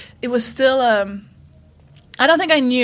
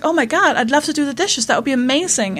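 lightly gushing, pitched-up eagerness; higher, naively enthusiastic reply; mock delight; 5 semitones higher than usual. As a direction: play up being thrilled by the offer. Acting out delighted reply to waiter.

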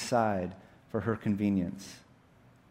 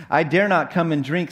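put-on higher, louder girl's protest; fearful Jill; 5 semitones higher, 7 dB louder than usual. Jill tells the lion she dare not drink, fearful. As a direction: refuse anxiously in a lifted voice. Voices frightened Jill refusing.

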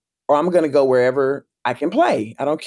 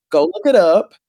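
higher, louder command; insistent mom; 6 semitones higher, 6 dB louder than usual. Retold or imitated. Mom sending her kid to the computer, insistent. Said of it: "she would always make me go look it up".

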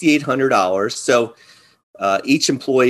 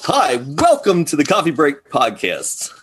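news anchor voice; 3 semitones higher than usual. Acted. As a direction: announce it like the evening news anchor. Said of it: "You gonna put your news anchor voice on?".

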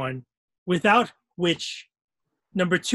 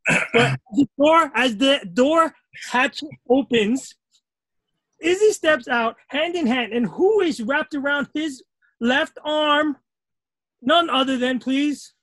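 dramatic announcer; 7 semitones higher than usual. Pretend. Announcing a dramatic imagined scene.

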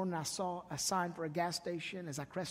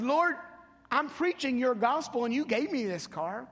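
louder, higher, exasperated protest to the Lord; indignant complaint to God; 4 semitones higher, 7 dB louder than usual. Retold or imitated. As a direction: complain to God like a man stranded out of gas. Angry complaint prayed to God.

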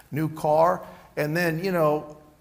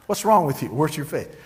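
harsh rebuke; 3 dB louder than usual. Retold or imitated. Jesus rebuking his frightened disciples, a harsh loud scold. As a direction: snap the question at them.

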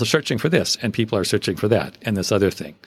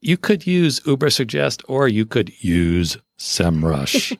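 slow demonstration of two attitudes; contrasting gravitas; slower than usual. Shown as a demonstration. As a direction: play up the second name with mock gravitas. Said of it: "the way you say it".

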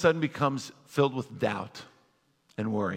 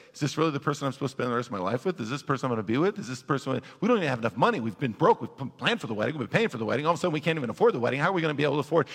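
panicky worrying; 4 semitones lower, much faster than usual. Retold or imitated. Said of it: "you start saying things like this".

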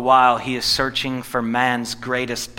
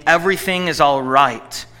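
mildly raised, emphatic call; crying out; 3 semitones higher, 6 dB louder than usual. A narrator's reading. Messenger calling good news to the king, crying out. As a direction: call it out with mild force. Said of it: "Ahimaaz cried to the king".

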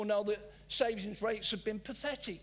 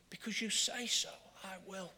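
fading softer repeat, trailing to almost nothing; 2 semitones lower, 5 dB quieter than usual. Retold or imitated. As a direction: echo it again, dropping away at the end. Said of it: "in the New International Version".

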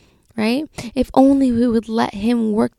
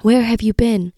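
a touch of a raised, grieving cry; mild cry out; 3 semitones higher, 4 dB louder than usual. Retold or imitated. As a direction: retell her crying out, softened. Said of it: "she cried out".

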